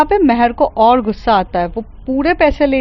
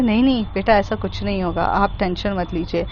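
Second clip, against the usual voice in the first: reassuring; 4 semitones lower, 5 dB quieter than usual. Acted. Comforting frightened child.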